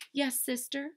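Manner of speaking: high, meek little-sister reply; Baby Lincoln. Acted. Little sister answering in story.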